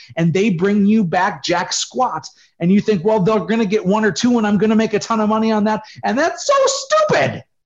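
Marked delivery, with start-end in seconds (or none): 6.0-7.4 worked-up, fired-up swooping rant, voice up an octave. Speaking to an audience, getting fired up, voice up an octave. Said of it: "my voice went up an octave because I'm getting fired up".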